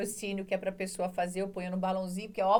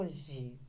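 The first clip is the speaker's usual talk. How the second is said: "hoje" drawn out on a long O, soft and low ending; musical calling; 4 semitones lower, 6 dB quieter than usual. Shown as a demonstration. Teacher calls the word to find the stressed syllable, O stretched. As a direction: chant "hoje" with the O held long. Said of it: "pra musicar a palavra".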